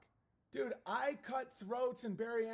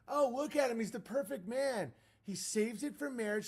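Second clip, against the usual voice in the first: gushing mock fan; 5 semitones higher than usual. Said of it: "It's like".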